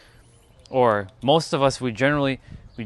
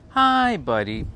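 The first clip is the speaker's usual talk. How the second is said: louder, higher hi buddy; mock greeting; 7 semitones higher, 6 dB louder, slower than usual. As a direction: throw the hi buddy up and out. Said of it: "repeating the greeting".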